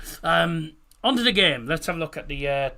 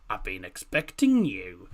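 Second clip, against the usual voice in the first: a lightly done suave spy line, lower and slow; quick lower, slower nod to a Bond villain; James Bond; 6 semitones lower, 3 dB louder than usual. Retold or imitated. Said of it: "something off James Bond".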